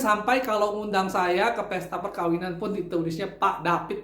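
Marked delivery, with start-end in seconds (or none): 3.4-4.0 "David" read as "Dapit", with P for V. Retold or imitated. Boss reading his misspelt wedding invitation, "David" pronounced "Dapit". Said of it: "pakai P, pakai I".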